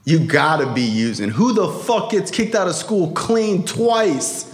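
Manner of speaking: low-voiced dad laying down the accusation; stern father accusing.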